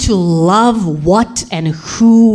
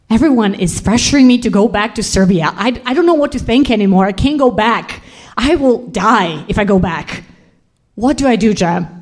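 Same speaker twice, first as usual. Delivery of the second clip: higher, mildly tearful outpouring; distraught pleading; 5 semitones higher than usual. Retold or imitated. Woman turning to Jem in the street, distraught. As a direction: pour it out in high-pitched despair. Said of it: "I ugly cried".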